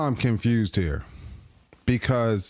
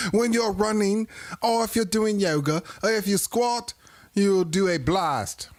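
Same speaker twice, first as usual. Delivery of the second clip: mock high voice; 7 semitones higher than usual. Mock high voice, asking the ladies.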